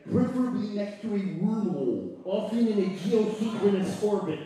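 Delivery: slushy lateral lisp lecture. Acted. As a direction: lisp every s sideways. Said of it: "do it with a lateral lisp".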